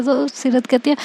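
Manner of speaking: ordinary delivery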